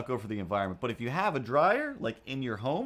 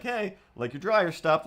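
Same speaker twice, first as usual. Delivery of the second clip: higher, louder call from the doorway; old man calling through the door; 6 semitones higher, 4 dB louder than usual. Retold or imitated. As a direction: neighbour calling out that the dryer stopped. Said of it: "he pokes his head out the door".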